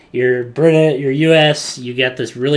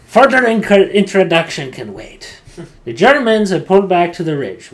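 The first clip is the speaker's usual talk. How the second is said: Frenchie impression; 6 semitones higher, 7 dB louder than usual. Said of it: "He's like".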